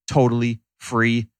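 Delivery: totally stretched out slowly; stress on totally. Shown as a demonstration. Host stressing the training is free, slow emphasis. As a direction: lean on totally, draw it out.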